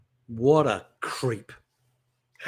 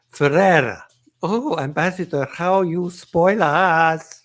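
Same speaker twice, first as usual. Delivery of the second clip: hammed-up advert guest, slow drawn-out ending; advert spoof; 3 semitones higher, 5 dB louder, slower than usual. Host spoofs an ambassador's party advert, hammed-up gushing. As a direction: gush grandly, stretching the last words.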